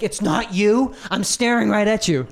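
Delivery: high, incredulous mock interrogator; mock disbelief. Questioner confronting the girl who denies it, mock disbelief. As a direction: push the voice up in staged disbelief.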